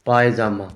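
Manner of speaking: teacher confirming पायजामा; correct form. Shown as a demonstration. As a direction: repeat पायजामा clearly as the right form. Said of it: "या फिर पायजामा".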